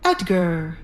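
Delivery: a lightly voiced anxious old nobleman; Desmond's voice. Desmond confronts Edgar.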